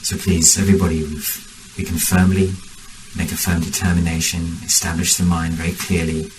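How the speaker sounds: measured meditation guidance with long pauses; guided meditation. Real, not acted. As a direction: guide the group unhurriedly, phrase by phrase.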